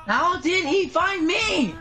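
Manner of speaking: high, slow, stretched-out silly whine; drawn-out whine. Pretend. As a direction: drag each word out, mock despair. Repeats it stretched out.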